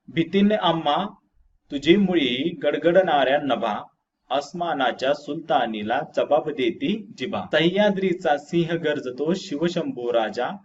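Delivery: measured, lilting verse reading; poem recitation. Acted. Teacher reading a patriotic poem to pupils, poem recitation. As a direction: recite the stanza line by line.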